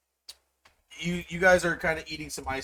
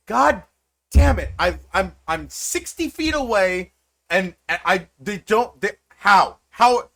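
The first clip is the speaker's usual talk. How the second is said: high, loud frustrated shouting; exasperated yell; 7 semitones higher, 10 dB louder than usual. Acted. Mom on the phone yelling at giants, furious. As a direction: blow up at the giants over the phone.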